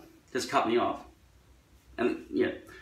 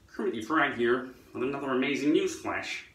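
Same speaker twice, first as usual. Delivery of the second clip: lightly voiced American news anchor; a hint of a TV anchor announcing a news flash; newsreader voice. A hint of a newsreader introducing a news flash. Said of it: "It's not exactly like".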